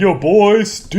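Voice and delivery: high, loud hype-man shout. Pretend. Hyping the guest pirate.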